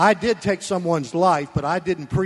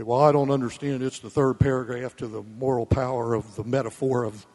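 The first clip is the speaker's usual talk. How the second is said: mock confused reader; 5 semitones lower than usual. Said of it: "You say".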